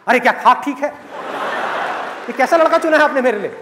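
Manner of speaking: mock-upset daughter, dragging the words out slowly; a hammed-up daughter whining to her dad; complaining daughter. Daughter on the phone whining to her father, mock-upset.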